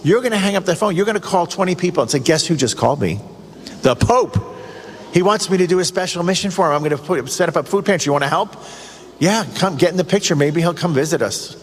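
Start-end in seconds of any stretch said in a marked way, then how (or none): 2.2-11.6 acted-out excitement, mildly raised pitch; excited. Parishioner phoning friends about the Pope's call, mildly excited. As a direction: play someone eagerly spreading big news. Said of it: "that's how excited you'd be".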